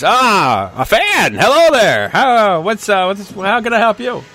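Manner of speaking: high, bright-eyed eager greeting; excited heroes. Acted. Heroes greeting a tavern fan with high eager excitement.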